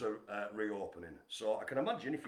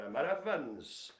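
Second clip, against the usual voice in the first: Welsh accent; slower than usual. Shown as a demonstration. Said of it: "I have to say Emma Evans in a Welsh accent".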